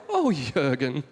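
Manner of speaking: low, slow, flat put-down; deadpan Swede. Pretend. Sven answering his friend Jürgen with a low, slow deadpan insult. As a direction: drop it low and dry. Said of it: "Sven will look back and go".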